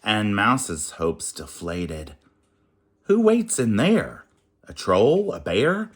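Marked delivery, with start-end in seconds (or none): 3.0-5.9 high, loud worried questions; a prince shouting over the noise; alarmed questions. Acted. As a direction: call over the clatter. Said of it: "asked Max through all the clatter".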